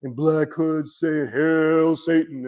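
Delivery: slow, drawn-out mock Satanist chant; mock occult cliché. Teacher mocks movie ideas of the occult, slow hammed-up spookiness. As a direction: stretch it out in mocking imitation. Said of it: "fools that don't know nothing about the occult".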